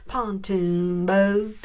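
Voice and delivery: slow, drawn-out southern country twang; light Southern twang imitation. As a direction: stretch pontoon boat like a Southern country singer. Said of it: "she definitely had a southern twang".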